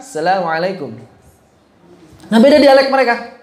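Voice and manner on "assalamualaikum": salam in an authentic Arabic accent. Shown as a demonstration. Teacher shows how Arabs really say salam, Arabic accent. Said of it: "Pasti orang Arab kalau mengucapkan".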